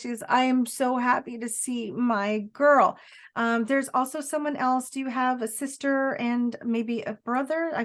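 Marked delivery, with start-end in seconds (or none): 0.3-3.0 slow, emphatic joy; mother's delighted greeting. Acted. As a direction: relish each word as a happy mother greeting her daughter. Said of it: "she's coming in and she's like this".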